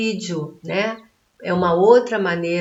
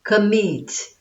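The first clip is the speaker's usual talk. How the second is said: "Commit" with weight on "mit"; stress on final syllable; 2 semitones higher than usual. Shown as a demonstration. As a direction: land firmly on the "mit" of "Commit". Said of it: "terminou em sílaba tônica". ("Commit" com ênfase na sílaba final "mit")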